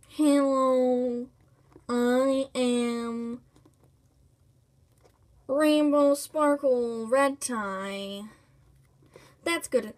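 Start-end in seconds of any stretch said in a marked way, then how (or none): 0.1-8.2 rainbow. Pretend. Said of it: "Now we gotta work on our voice".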